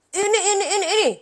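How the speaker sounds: high giggly stammer; flustered laughing repeat; laughing fumble. Retold or imitated. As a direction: laugh it off nervously. Flustered child fumbling answer.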